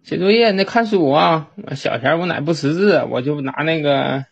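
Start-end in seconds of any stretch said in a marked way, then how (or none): 0.0-1.5 lightly imitating an old grandma urging him; grandma nagging. Grandma tells the boy to read after school, higher nagging. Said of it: "我奶说".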